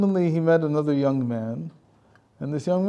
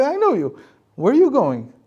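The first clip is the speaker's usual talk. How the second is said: much higher, louder devil challenge; Satan accosting; 10 semitones higher, 7 dB louder than usual. Acted. Satan blocking the man's road to paradise, high and loud. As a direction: call him out like you caught him.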